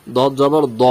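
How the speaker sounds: thick দ without an "aa"; heavy letter. Shown as a demonstration. Teacher giving the correct reading, heavy rounded দ. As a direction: end on দ as a rounded "daw". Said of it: "তাহলে কি হবে উচ্চারণ?".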